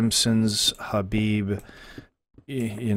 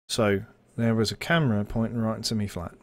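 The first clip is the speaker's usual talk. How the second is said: English accent. Shown as a demonstration. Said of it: "you have a key phrase that you use to switch accents".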